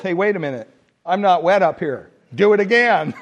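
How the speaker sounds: object, then push up into a demand; indignant objection. Acted. Baptized man objecting to the pastor, indignant objection. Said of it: "the guy went like this, and he goes".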